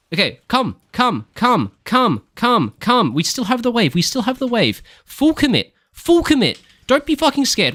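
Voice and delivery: high, loud urging of teammates; urgent shouting. Real, not acted. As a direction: push the team to commit, shouting. Commanding team into full commit.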